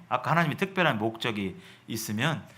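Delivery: ordinary talk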